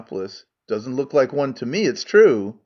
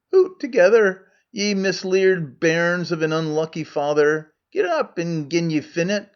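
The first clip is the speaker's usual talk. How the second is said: Scots Megarian; 2 semitones higher than usual. Acted. Megarian role in Scots dialect.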